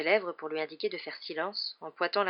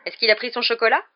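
higher, louder anxious question; anxieux; 6 semitones higher, 9 dB louder than usual. A narrator's reading. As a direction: fret aloud to the nurse. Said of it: "d'un ton anxieux". (ton anxieux)

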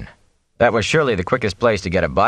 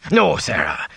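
panting; 5 semitones higher, slower than usual. Acted. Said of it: "he panted".

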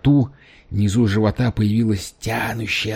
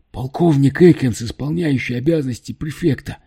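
carefully enunciated; 5 semitones higher than usual. Acted. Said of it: "отчётливо выговаривая каждую букву".

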